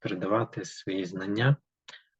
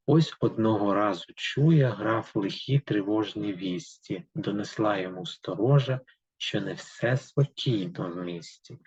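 steady, rhythmic reading of verse; poem reading. Acted. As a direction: read the fairy tale in verse to the class. Reads the poem aloud. (читання вірша вголос)

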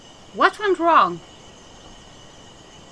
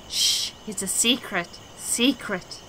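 secretive hush; 5 dB quieter than usual. Acted. Madman confiding a secret.

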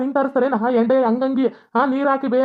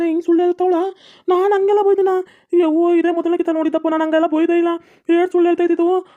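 indignant denial; 5 semitones higher than usual. Acted. Father-in-law denies the accusation.

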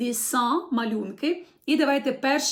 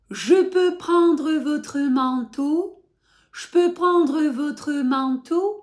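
slow model phrase; 3 semitones higher, 6 dB louder, slower than usual. Shown as a demonstration. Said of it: "teacher models phrase slowly".

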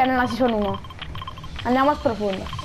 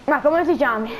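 small hiccup mid-question. Real, not acted. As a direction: ask through hiccups. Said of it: "Scusa per il singhiozzo".

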